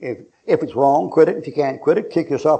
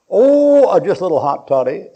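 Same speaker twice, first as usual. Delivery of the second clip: sheepish drinker; 4 semitones higher, 6 dB louder than usual. Acted. Preacher voicing a drinker caught with a hot toddy, sheepish. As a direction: caught out, high startled oh then mumbled excuse.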